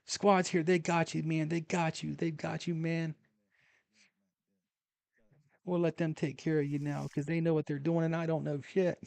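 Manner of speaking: high, loud, relieved reassurance; relieved comforting. Retold or imitated. Telling dummy Bernie the squad is here, loud relieved comfort. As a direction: soothe him loudly, overjoyed he's breathing.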